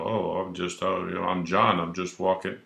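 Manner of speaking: a touch of timid stammering; nervous reply. Retold or imitated. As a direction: mumble it like a caught kid. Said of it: "And you go".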